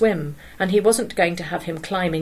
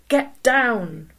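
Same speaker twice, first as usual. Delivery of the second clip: yelled; 6 semitones higher than usual. A narrator's reading. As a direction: yell it sharply. Follows yelled Down.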